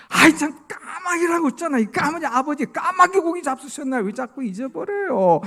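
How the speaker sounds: high, loud exasperated outburst; angry son. Retold or imitated. 네 번째 묻는 아버지에게 화를 내는 아들의 큰 소리. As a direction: blow up at the forgetful father. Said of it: "막 하면서 화를 내고".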